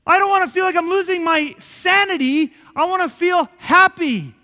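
high, loud, pleading cry of despair; anguished cry. Retold or imitated. Pastor reliving crying out to God in panic, a high loud anguished plea. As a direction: cry it out to God, breaking with need.

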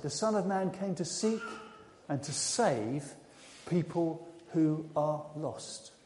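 hushed, earnest and very slow; solemn tenderness. Acted. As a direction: let it sink down gently, word by word. Jesus solemnly states his mission.

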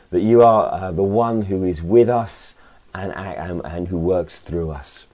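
earnest spoken prayer. Acted. Leads a prayer.

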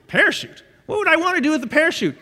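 puzzled, quick protest; baffled passenger. Retold or imitated.

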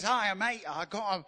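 poor attempt at an Australian accent. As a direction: imitate a breezy Australian greeting, badly. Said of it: "I can't do Australian accent".

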